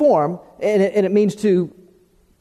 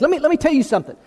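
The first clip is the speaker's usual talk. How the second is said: higher, pointed mock warning; poking-the-chest warning; 7 semitones higher, much faster than usual. Preacher imitating someone jabbing a finger in your chest, higher mock warning. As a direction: prod the listener with each word. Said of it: "or sticking it in your chest".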